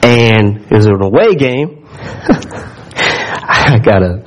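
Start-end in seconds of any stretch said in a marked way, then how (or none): 2.0-2.7 real breathy chuckle, held back; stifled laugh. Real, not acted. Preacher starting a funny football story, stifled laugh. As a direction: try not to crack up. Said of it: "without just cracking up".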